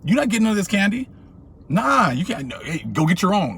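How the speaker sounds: high, fast, smug mock voice; snatch it away like a greedy kid; greedy refusal. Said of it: "You like".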